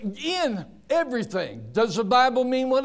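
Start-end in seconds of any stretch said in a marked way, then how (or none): 0.0-1.7 in hit hard, then softer. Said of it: "But it says".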